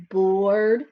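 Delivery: "bored" drawn out with a lift at the end; bored, rising. Shown as a demonstration. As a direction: stretch "bored" and let it lift. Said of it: "he is bored".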